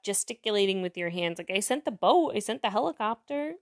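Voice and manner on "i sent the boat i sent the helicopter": lightly put-on Jewish comedian delivery; a touch of shrugging old-school comic. Shown as a demonstration. Demonstrating God's punchline, lightly done Jewish comedian voice. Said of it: "Jewish comedian voice".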